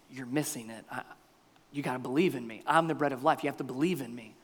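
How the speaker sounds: soft, low, patient insistence; gentle, low-voiced plea; quiet correction. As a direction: answer the clamour softly. Jesus answers the demanding crowd.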